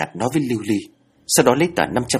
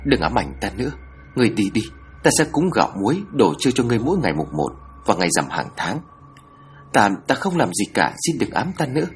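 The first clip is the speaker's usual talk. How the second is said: mild pleading; 2 semitones higher than usual. Acted. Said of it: "cô nói như van xin".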